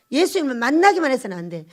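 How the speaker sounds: usual speaking voice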